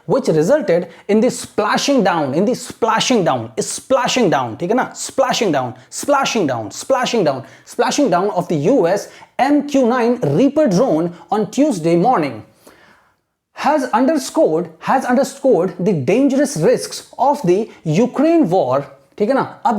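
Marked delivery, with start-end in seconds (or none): 0.1-4.6 very slow, careful reading aloud; teacher reading for imitation; slow model reading. Shown as a demonstration. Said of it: "imitate करना है". 5.0-7.4 "splashing down" said clearly, twice over; repeated for practice. Shown as a demonstration. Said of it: "imitate करना है". 7.7-18.8 very slow, careful reading aloud; teacher reading for imitation; slow model reading. Shown as a demonstration. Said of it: "imitate करना है".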